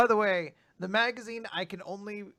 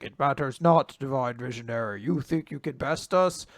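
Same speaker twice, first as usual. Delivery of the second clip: menacing giant; 10 dB louder than usual. Acted. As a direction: challenge the hero like a grandiose giant. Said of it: "the giant's just like".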